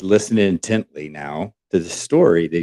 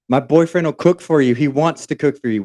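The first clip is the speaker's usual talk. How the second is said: eager insisting; 6 semitones higher than usual. Retold or imitated. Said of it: "she just goes on and on".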